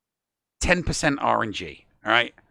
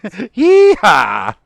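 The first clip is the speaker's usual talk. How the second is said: loud, high cowboy holler; belted cowboy cry; harder-worked yeehaw; 6 semitones higher, 12 dB louder than usual. Shown as a demonstration. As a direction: whoop it out with effort. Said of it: "put some work into it".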